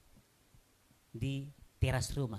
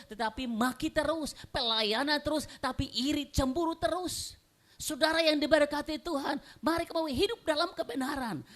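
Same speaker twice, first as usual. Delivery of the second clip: high, insistent sermon delivery; urgent pulpit proclamation; impassioned preaching; 10 semitones higher, 4 dB louder than usual. Real, not acted. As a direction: preach it forcefully to the congregation. Preaches at full force.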